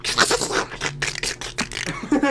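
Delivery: soft crackling mouth noise; drawn-out grinding sound made by mouth; imitated crunching noise. Coach and doc pull the fingers, imitated crunching.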